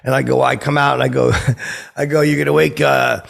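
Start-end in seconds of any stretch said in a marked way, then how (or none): 2.2-3.2 mock shout about waking everyone; retold yell at driver. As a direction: tell him off across the lot. Yelling at honking driver.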